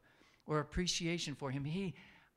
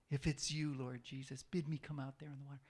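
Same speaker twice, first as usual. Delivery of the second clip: mock arrogant Peter; 3 semitones lower than usual. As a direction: dismiss it as pretentious. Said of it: "What an arrogant thing to say".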